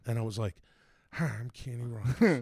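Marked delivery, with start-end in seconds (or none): 1.1-2.4 a light voice of a singer, easy and friendly; singer impression. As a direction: slip lightly into the singer's voice. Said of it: "can you do Kenny Rogers?".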